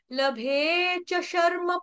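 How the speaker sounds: शर्म with a half र, slow and chanted; right way, शर्म; correct reading. Shown as a demonstration. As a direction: join र straight to म in शर्म. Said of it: "आधा म आएगा".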